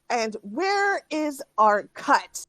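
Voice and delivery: slow, pressing demand. Acted. Bandit leader slowly demanding her cut of the loot. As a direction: drag out the question.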